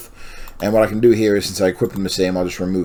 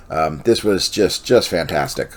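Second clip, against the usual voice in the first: yawning; slower than usual. Real, not acted. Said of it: "apparently I'm yawning".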